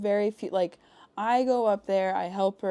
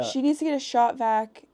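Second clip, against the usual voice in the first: raised, urgent demand; pitched-up frantic instruction, mildly yelled; retold yelling; 4 semitones higher, 4 dB louder than usual. Panicked caller telling partner what the friend must bring, yelling. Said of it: "I'm yelling at you".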